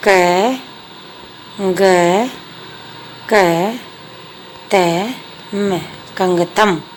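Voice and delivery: slow separate letters, then कंगतम whole; spelling out letters. Shown as a demonstration. Teacher joining letters into a word for pupils, slow and separate. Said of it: "अगला है".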